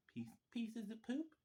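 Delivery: put-on high, soft, slow child voice; imitated kid. Imitating one of the kid voices he hears, high childlike voice. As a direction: lightly mimic a little kid, drawn out. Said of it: "Sometimes you get kids. One of 'em".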